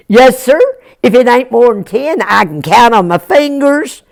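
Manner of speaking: lightly voiced earnest country boy; Jack, polite mountain boy. Jack turning down his brothers, earnest and polite. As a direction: bid them well, politely, with a lift at the end.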